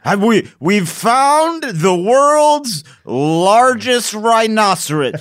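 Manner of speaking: high, loud, slow mock proclamation; pompous discovery announcement. Scientist announcing a fake find, hammed-up proclamation. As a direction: proclaim it grandly with drawn-out words.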